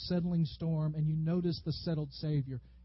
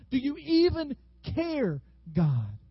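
anguished plea; 9 semitones higher, 3 dB louder, slower than usual. Acted. Believer questioning God in the storm, anguished plea. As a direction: stretch out the challenge, then let it fall.

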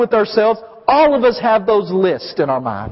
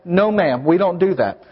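firm parent; 5 semitones lower than usual. Retold or imitated. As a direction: gently set the rule for the toddler. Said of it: "I'll say".

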